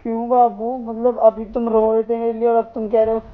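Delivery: hurt disbelief. Acted. Dumped boyfriend protesting to girlfriend in loud hurt disbelief. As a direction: push back in hurt shock.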